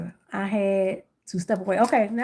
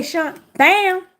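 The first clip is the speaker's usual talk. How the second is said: 1 excited; 9 semitones higher, 8 dB louder than usual. Real, not acted. Excited announcing to friend.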